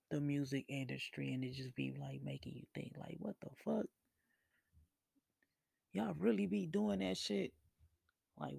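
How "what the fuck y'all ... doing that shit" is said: shocked disbelief. Retold or imitated. Watching exposés while high, higher incredulous outburst. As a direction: ask it like you can't believe it. Reacting to music industry exposés.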